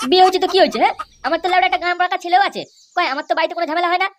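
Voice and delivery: high-pitched, indignant boasting; scoffing. Acted. Friend mocking a married pal's fear of his wife, scoffing.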